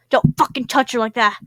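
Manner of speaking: loud, protective outburst at his rival; impassioned yell. Acted. John yelling at Paul to stop grabbing her. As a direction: shout it like he's defending her. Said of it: "John rayed, impassioned".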